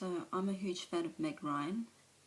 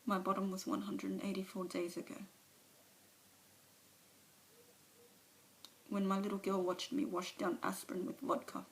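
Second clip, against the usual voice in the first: an alcoholic owning up, subdued; Alice's confession. Acted. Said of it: "a monologue from one of, of her movies".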